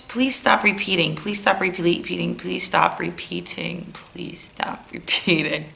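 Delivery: the same plea looped, fading out; droning repetition. Acted. Begging the repeat coach to stop, droning repetition.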